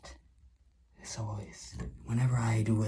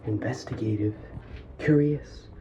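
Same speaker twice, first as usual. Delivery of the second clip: breathless, gasping between words; out of breath. Real, not acted. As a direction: talk while out of breath. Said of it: "And now I'm out of breath".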